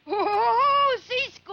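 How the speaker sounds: cowboy show parody. Acted. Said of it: "ending of another television program about cowboys".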